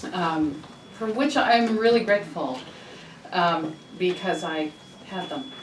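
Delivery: talking with gum in mouth; chewing gum. Real, not acted. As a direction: speak around a wad of gum. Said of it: "I put this piece of gum in my mouth".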